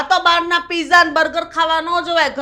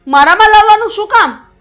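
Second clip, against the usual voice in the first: angry outburst; 4 dB louder than usual. Acted. Mother-in-law lashes back at daughter-in-law.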